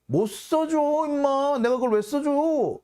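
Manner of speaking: brushing off the demand with mock bluster. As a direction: bark the refusal in a high mock voice. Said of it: "큰 소리를 떵 쳐요".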